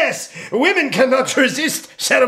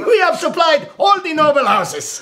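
laughing salesman; 4 semitones higher than usual. Acted. Merchant laughing while selling.

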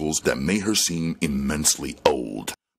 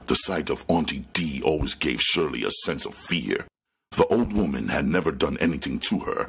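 ordinary delivery, nothing marked

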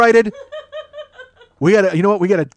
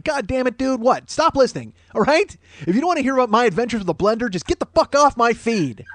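raised-pitch, hammed-up irritation; exasperated retort; 3 semitones higher than usual. Host to listener griping about Vitamix, exasperated. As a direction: tell off a complainer in mock exasperation.

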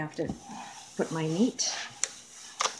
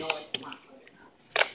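whispering. Real, not acted. Mom whispering while filming.

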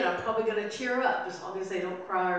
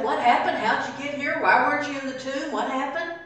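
higher, louder volley of questions; astonished questioning; 4 semitones higher, 5 dB louder than usual. Acted. What Mary doesn't say to the risen Jesus, astonished questioning. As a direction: fire off incredulous questions, acted out.

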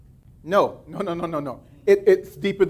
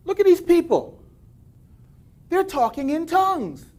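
a hint of a scornful onlooker, higher; lightly voiced mocker; 7 semitones higher than usual. Preacher voicing an imagined onlooker, mildly mocking. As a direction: sneer lightly at the crowd. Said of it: "came and said".

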